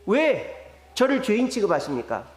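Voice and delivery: voicing an aggrieved, questioning plea; protesting to God. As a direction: build a mild remonstrance, question by question. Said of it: "하나님께 따지는 것이".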